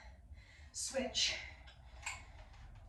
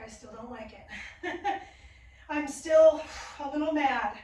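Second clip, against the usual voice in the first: laughing; 5 dB louder than usual. Real, not acted. Laughing about hated block.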